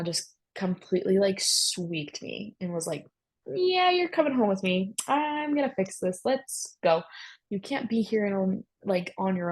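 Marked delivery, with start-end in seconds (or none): 3.5-9.5 high, brisk and decisive, no arguing; take-charge mother-in-law. Retold or imitated. Mother-in-law taking charge of her exhausted daughter-in-law, brisk and high. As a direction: sweep her up like a caring boss.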